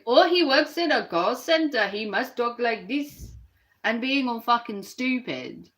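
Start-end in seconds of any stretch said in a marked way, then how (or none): 0.1-3.3 mock Indian accent. Streamer imitates a YouTuber mocking an Indian accent. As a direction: retell a crude Indian-accent mockery, half-hearted. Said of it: "By mocking someone's accent from India".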